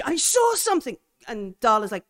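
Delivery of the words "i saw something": high, loud, panicked; terrified cry. Acted. Farouk shouting to Darla in the dark, panicked high yell. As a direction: blurt it out in fright, much higher.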